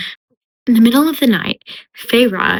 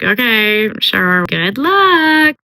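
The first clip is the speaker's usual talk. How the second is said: doubtful send-off; much slower than usual. Retold or imitated. Lucien sending Feyre off to catch the Suriel, doubtful. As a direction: humour them with a lilting send-off.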